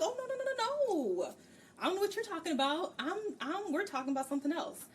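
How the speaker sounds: high-pitched, hurried mock panic; hammed-up scramble to cover a secret; flustered denial. Fee hides her illiteracy from Tavin, flustered high-pitched denial. Fee frantically denying she can't read.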